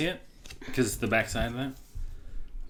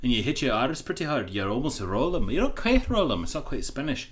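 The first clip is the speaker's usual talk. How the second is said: demonstrated Scottish accent, hard R's; Scottish R's hit hard, almost rolled. Shown as a demonstration. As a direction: speak Scottish from the front of the mouth. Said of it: "This is Scottish".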